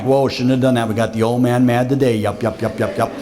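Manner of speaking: the bear admitting guilt, head down; sheepish bear. Pretend. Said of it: "he'd put his nose down like".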